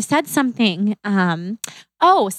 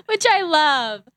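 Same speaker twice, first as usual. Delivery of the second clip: said through a real laugh, slow and higher; 5 semitones higher, slower than usual. Real, not acted. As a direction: laugh it out with delight. Laughing at friends' same reaction.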